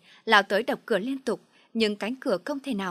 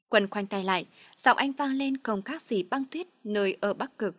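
usual speaking voice

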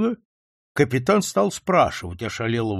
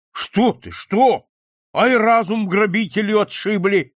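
exclaiming; 6 semitones higher, 5 dB louder than usual. A narrator's reading. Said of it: "воскликнул капитан".

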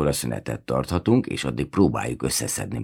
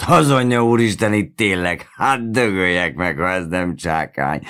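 amazed exclamation; 5 semitones higher, 6 dB louder than usual. A narrator's reading. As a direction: burst out higher and louder in amazement. Worker suddenly sees the likeness.

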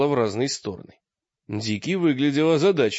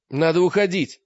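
anxious; 5 semitones higher, 5 dB louder than usual. A narrator's reading. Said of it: "сказал Олег тревожно".

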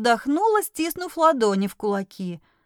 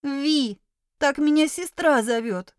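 plaintive; 3 semitones higher than usual. Acted. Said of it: "жалобно произнесла она".

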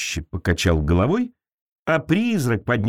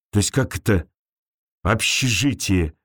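amused scoff; 4 semitones lower than usual. Acted. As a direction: scoff at the word общежитие. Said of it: "усмехнулся Лёша".

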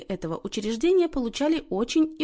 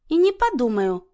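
higher, louder flat-out refusal; curt refusal; 5 semitones higher, 6 dB louder than usual. A narrator's reading. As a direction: cut her off firmly. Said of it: "отрезала та".

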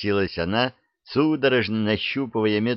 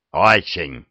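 eager; 2 semitones lower, 4 dB louder than usual. Acted. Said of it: "сразу загорелся дракон".

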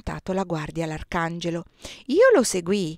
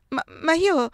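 insisting; 8 semitones higher, 5 dB louder than usual. A narrator's reading.

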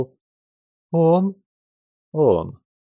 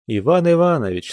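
a light hint of pleading on the name; 5 semitones higher than usual. Vera begging Tushin to stop, mildly pleading. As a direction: appeal to him gently, a touch imploring. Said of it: "сказала Вера умоляющим голосом".

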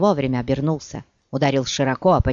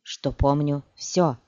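cold, slow and final; slower than usual. Acted. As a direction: drop it coldly, slowly. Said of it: "холодно бросила Цири". (холодно и медленно)

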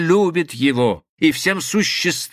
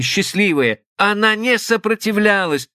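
plain reading voice

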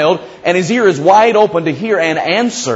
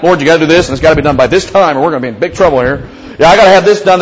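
demanding prayer; faster than usual. Retold or imitated. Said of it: "that's the way we pray".

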